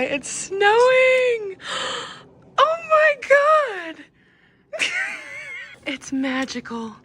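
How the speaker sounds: high, slow, teary cries of joy; overwhelmed by the first snow; tearful excitement. Real, not acted. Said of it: "I'm gonna cry".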